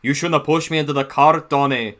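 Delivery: light mock Scottish accent; Scottish accent imitation. Fan imitates the Scottish twins arguing. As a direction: bicker in a playful Scottish accent. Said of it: "he did good with Donald and Douglas's voice".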